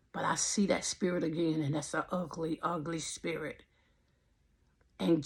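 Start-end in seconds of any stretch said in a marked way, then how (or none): 0.1-3.6 whisper. Real, not acted. Recalling an evil spirit.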